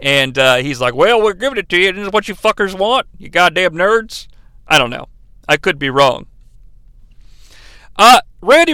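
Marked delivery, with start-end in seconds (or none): 1.0-4.3 imitated fed-up commentator, mildly exasperated; lightly mock a grudging announcer. Imitating a commentator giving nerds what they want, fed up. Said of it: "He's clearly fed up with that type of shit".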